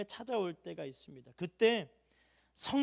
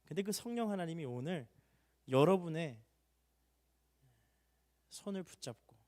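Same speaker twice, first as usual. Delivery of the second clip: ordinary talk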